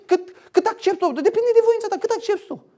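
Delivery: mock the idea that God depends on you. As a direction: pitch it way up to ridicule the idea. Mocking the wrong view.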